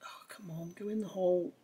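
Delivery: strained whisper, fiddling with tweezers; threading a needle. Real, not acted. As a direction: whisper it while threading something tiny. Fitting a tiny part.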